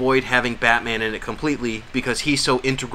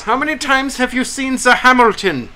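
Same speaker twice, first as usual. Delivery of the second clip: much higher, louder goofy questioner voice; silly put-on voice; 11 semitones higher, 6 dB louder than usual. Host imitates a fan at a press panel in a goofy higher voice. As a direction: ham up an odd fan question. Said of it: "it's a different voice".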